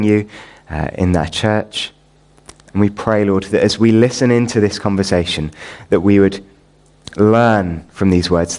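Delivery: low, measured praying voice; prayer. Real, not acted. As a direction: pray aloud reverently, with unhurried pauses. Leads the congregation in prayer.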